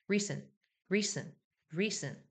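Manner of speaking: reason의 son을 어와 으 중간으로 흘려; 리즌처럼 끝을 힘 빼고 살짝; schwa between eo and eu. Shown as a demonstration. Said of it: "어와 의의 중간". (어와 으 중간 소리 시범)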